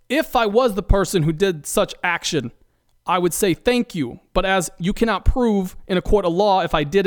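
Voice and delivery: mobster voice. Acted. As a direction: talk like a cagey mob guy. Host keeps playing mobster Freddy.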